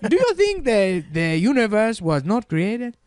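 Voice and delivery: mock African-accented lecturer voice, high and sing-song; African accent impression. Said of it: "what if they gave him an African voice".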